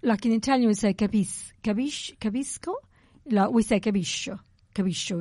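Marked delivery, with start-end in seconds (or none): 3.8-5.2 capiscio with a sh, capiʃo; capiscio, sc as soft sh; dialect capiscio. Shown as a demonstration. Explaining dialect, capisco said capiscio. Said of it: "we put a sh a lot".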